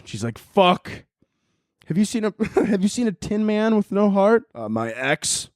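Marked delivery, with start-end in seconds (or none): 0.4-4.4 high put-on Dorothy, laughing through; lost girl hunting the Tin Man. Dorothy asks about a heartless Tin Man in high voice.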